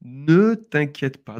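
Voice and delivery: ne t'inquiète pas spelled out slowly, ne stressed; slow teaching model. Shown as a demonstration. Teacher showing the full form of t'inquiète, slow. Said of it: "on dit tout simplement t'inquiète".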